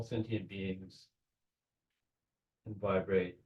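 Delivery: unhurried visualization with long pauses between phrases; measured meditation-leader voice; guided meditation. Real, not acted. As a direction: guide them gently, phrase by phrase.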